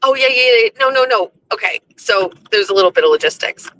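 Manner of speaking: ordinary delivery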